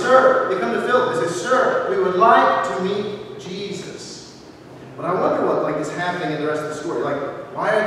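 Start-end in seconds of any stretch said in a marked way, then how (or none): 0.0-4.3 lightly voiced Greeks. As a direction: mildly act out the Greeks asking politely. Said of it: "some Greeks who come out and say".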